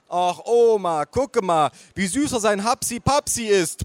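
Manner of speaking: put-on high, gushing baby-talk; hollering mother. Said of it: "brüllte meine Mutter".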